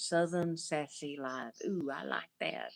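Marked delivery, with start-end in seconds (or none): none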